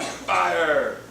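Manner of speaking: loud falling shout of one word; shouted exclamation. Pretend. Preacher calls out to the congregation, shouted exclamation. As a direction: belt it out.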